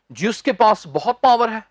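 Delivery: पावर said as "paa-var" with a clear v; the common Indian paa-var; wrong pronunciation. Shown as a demonstration. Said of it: "पावर नहीं कहना मेरे भाई".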